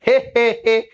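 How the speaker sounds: short fake he he he chuckle; mock chuckle. Teacher teasing a student with a put-on chuckle. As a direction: give a playful put-on chuckle. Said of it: "তোকে আমি হাসিয়ে দিলাম একটা".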